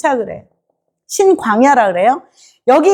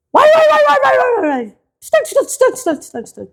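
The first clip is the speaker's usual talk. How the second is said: high, far-off grumble noises; mock grumbling babble; 10 semitones higher than usual. Preacher mocking the grumbling Israelites with babble.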